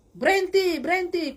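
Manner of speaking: shouted stop. Retold or imitated. Guards after drenching him, shouting stop.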